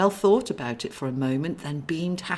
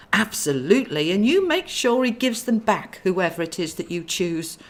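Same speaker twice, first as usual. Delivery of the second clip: firm; 3 semitones higher, 4 dB louder than usual. Acted. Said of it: "Clarabel said firmly".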